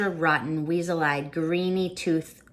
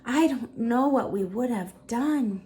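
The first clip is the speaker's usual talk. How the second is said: softly spoken grandma; 6 semitones higher than usual. Acted. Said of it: "my bubby said softly".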